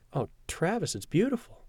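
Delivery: delighted gasp. Acted. Samantha delighted by the locket.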